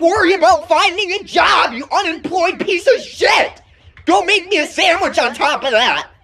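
put-on furious bratty teen screaming at mom; angry yelling. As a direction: yell it like a spoiled gamer kid. Kid screaming at mom over Fortnite.

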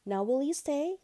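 high, loud lamb question; high storybook lamb voice; hopeful lamb. A narrator's reading. Lamb asks butterfly to stay.

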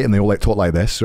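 lightly imitated Scottish accent. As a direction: slip into a relative's Scottish accent. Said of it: "they're, like, Scottish accents".

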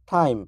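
টাইম with a ঠ-like aspirated t; টাইম, British aspirated ঠ. Shown as a demonstration. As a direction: breathe out on the ট of টাইম. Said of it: "ঠ এর মতো".

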